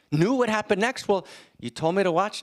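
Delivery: high, urgent Yiddish father; Yiddish accent. Acted. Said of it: "in a slight Yiddish accent".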